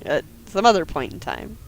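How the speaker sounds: fast, deadpan official statement; mock formal report. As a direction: read it like a sworn police report.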